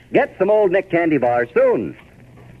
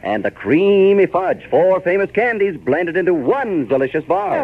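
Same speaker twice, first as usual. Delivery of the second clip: put-on old radio announcer; 3 semitones higher than usual. Sponsor ad read.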